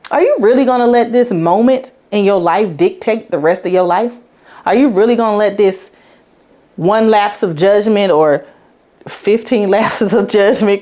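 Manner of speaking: mild pointed questions to herself; a hint of tough love; challenging herself. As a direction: push back on herself, lightly. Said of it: "I'm just like".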